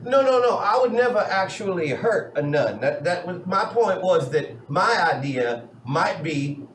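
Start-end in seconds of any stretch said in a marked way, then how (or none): 0.0-2.8 alarmed protest. Real, not acted. Denies hurting nuns, alarmed.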